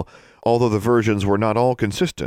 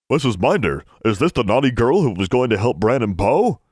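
higher, swooping elf croak; croaking male elf; 4 semitones higher, 3 dB louder than usual. A narrator's reading. Elf asking the librarian about the naughty girl, croaking. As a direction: croak it like an eager little elf. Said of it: "it croaked in a decidedly male voice".

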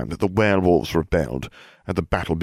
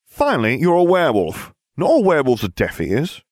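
excited; 8 semitones higher, 4 dB louder than usual. Acted. Narrator voices an excited exchange.

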